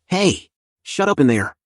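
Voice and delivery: sharp, aggressive high shout; angry shout. Acted. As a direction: snap at the prisoner angrily. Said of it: "as it shouts at him".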